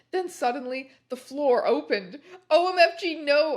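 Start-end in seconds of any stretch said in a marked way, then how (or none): 2.5-3.6 high, loud hammed-up cry; mock scream. A narrator's reading. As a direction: yell as if falling, overdone. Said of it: "I screamed as I fell down".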